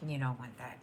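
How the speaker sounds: whispered aside; whispering. Real, not acted. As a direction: drop to a whisper. Aside to viewers.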